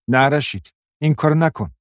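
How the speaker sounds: high, frightened begging; frightened plea. Acted. Mariam begging Rashid, frightened, not to hit her.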